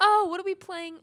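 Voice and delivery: high, loud laughing wail; laughing cry. Real, not acted.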